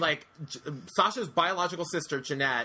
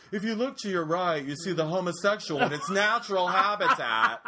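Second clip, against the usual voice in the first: tour guide narrating wildlife, high; nature documentary; 5 semitones higher than usual. Retold or imitated. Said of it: "the bus driver being like".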